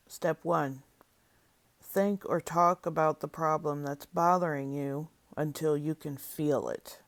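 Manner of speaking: measured step-by-step prompts with long silences between; guided imagery reading. Acted. Leader guiding listeners through an inner peace process, deliberate instructional reading. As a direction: read each prompt out clearly, then leave room to feel.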